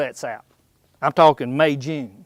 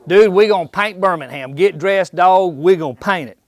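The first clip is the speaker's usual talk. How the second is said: put-on excited young bucks; 4 dB louder than usual. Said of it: "They're all excited".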